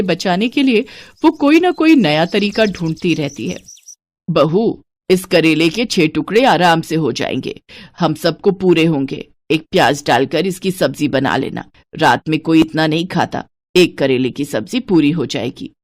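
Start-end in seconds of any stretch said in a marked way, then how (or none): 4.3-13.5 put-on lower, bossy miserly old woman; lightly lowered stingy mother-in-law voice. Santosh instructs daughter-in-law. 13.8-15.7 lower, matter-of-fact stinginess on एक करेले; a hint of a stingy old woman; stingy mother-in-law. Mother-in-law decides the portion.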